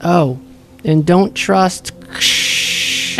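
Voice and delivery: high, muffled voice with static crackle. Acted. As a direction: speak like a crackly magic radio. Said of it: "small, muffled voice coming from Quincy's pocket".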